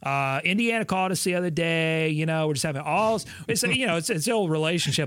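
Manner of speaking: put-on airy valley girl chatter. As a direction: play a ditzy valley girl gossip. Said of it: "are you doing Valley Girl talk?".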